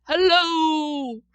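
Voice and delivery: loud calling hello, high; shouted hello. A narrator's reading. Child calling from the mountaintop, loud hello. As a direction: call out across the mountain. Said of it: "and I shouted".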